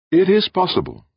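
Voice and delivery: high, measured voice of an alien being. Acted. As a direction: speak as a calm cosmic presence. Alien voice answers.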